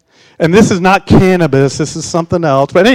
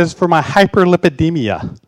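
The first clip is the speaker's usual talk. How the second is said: laughing. Retold or imitated. Laughing at own sarcastic answer.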